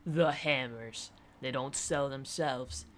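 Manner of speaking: slow, drawn-out sardonic quip. Acted. Bar mates joking about selling hammers, sardonic. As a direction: draw it out with dry mockery.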